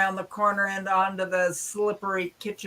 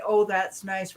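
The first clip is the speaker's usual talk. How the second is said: polite brush-off; slower than usual. Retold or imitated. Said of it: "they taught me to say".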